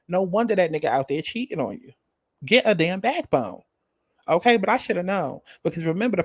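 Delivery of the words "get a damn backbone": slow, sassy scold; slow exasperated scold. Acted. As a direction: drag out each word like a disappointed auntie. Scolding a cast member.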